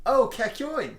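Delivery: calling out. Acted. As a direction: call him back before he leaves.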